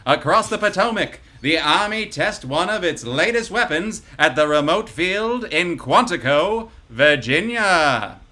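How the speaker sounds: energetic fifties newsreel read; newsreel announcer. Acted. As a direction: boom it like a newsreel. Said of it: "energetic voice of a newsreel announcer".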